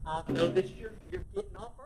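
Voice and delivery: soft, sing-song coaxing of a boss; mock sweet soft scolding. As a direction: gently coax a slacking employee. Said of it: "And we talk like this".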